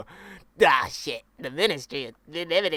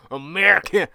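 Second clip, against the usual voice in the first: put-on posh English accent; 2 semitones higher, 8 dB louder than usual. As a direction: sneer down at the American, posh English. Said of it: "Make it sound really cockney".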